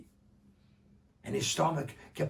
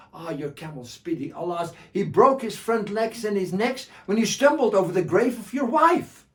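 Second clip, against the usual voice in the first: mock sorrow; 7 semitones higher, 10 dB louder than usual. Joha tells more bad news.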